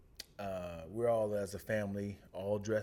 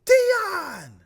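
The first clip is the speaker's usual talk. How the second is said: much higher, louder startled cry; shocked disbelief; 12 dB louder than usual. Retold or imitated. Miss Calhoun hearing of the death, high shocked imitation. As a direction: gasp it out in disbelief.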